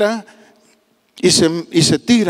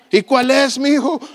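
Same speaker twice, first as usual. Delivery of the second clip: pastor voice; 7 semitones higher than usual. Acted. Pastor answering the old man.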